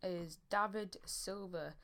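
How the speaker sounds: slow halting words from a dry mouth. Real, not acted. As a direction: speak through a parched dry mouth. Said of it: "I got a really dry mouth".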